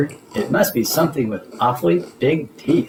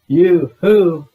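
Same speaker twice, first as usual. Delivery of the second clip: holler; 4 semitones higher, 6 dB louder than usual. Retold or imitated. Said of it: "I didn't holler".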